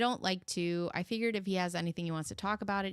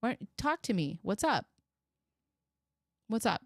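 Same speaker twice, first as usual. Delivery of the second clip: pretend caring mother; 3 semitones higher than usual. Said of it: "you don't say, like".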